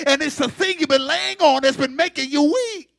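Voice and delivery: ordinary talk, nothing marked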